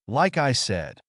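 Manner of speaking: a hint of insistent protest in a character's line; lightly acted correction of a misunderstanding; lightly voiced Naruto, insisting. Naruto's dialogue in story.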